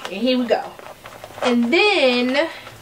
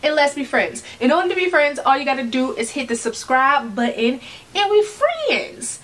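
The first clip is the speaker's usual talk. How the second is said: upbeat pitchman intro; infomercial. Acted. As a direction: sell it like a TV ad. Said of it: "why does it sound like an infomercial".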